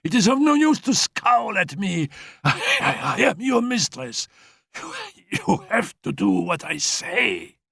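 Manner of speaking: high, tired, haughty commands; imperious invalid. Acted. Annette dismissing Félicie, high haughty and tired. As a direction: command her, fading with exhaustion.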